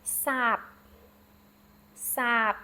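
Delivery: sap with an open ah sound; careful demo of sap; Khmer word sap. Shown as a demonstration. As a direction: say sap slowly, mouth open on ah. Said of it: "Bland is sap".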